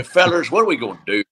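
lightly imitating a Southern high school coach; Southern coach impression. Coach rallying his players in a light Southern accent. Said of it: "he talked like this".

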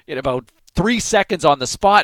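ordinary talk, nothing marked

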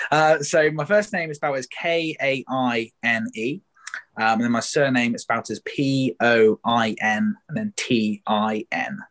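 K A I N E, P O I N T I N said one letter at a time; spelling it out. Shown as a demonstration. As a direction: spell the name letter by letter, slowly. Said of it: "Can you spell your last name for us?".

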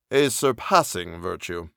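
low, slow menacing stranger; low looming threat. Acted. Stranger tempts the narrator's friend.

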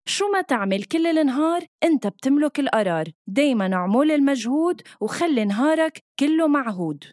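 upbeat commercial voiceover; ad read. Acted. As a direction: sell it like a radio ad. Reads radio ad script.

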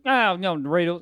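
exaggerated Louisiana speech; imitating Louisiana speaker. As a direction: blurt it as a comic Louisiana impersonation. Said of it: "Anything they say in Louisiana".

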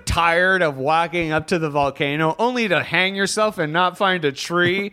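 pitchman pitch rising; hard sell like a late-night ad; infomercial. Acted. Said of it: "It's like an infomercial".

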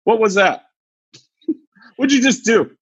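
just ask what happened, half laughing; teacher calmly asking the student instead, light; calm question. Retold or imitated. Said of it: "he could have just been like".

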